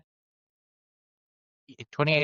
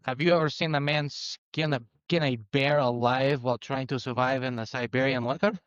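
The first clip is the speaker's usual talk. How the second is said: put-on Russian accent. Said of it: "the most Russian accenty Russian accent".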